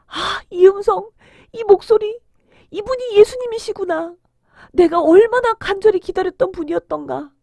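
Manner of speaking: high, overcome with wonder; awed excitement. Acted. Blind man recognises Jesus's long-awaited voice, awed excitement. Beggar moved at hearing Jesus.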